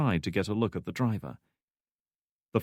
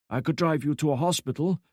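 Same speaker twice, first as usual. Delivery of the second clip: lightly voiced old man; 7 semitones higher than usual. Old driver offers help.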